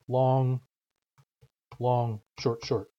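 long drawn out, short cut short; rhythm demonstration. Shown as a demonstration. Teacher showing a word's rhythm, long held and short quick. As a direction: hold each long, keep each short quick.

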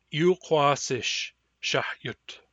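"shahyutsish" spelled out very slowly; "shahyutsish" stretched slow for learners; slow model word. Shown as a demonstration. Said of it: "you will pronounce them with me".

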